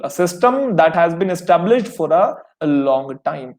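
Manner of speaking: very slow, each word spelled out for notes; slow dictation. Shown as a demonstration. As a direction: read it out slowly so students can write. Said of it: "इसका मतलब क्या होता है?". (बहुत धीरे, शब्द-शब्द अलग करके बोलना)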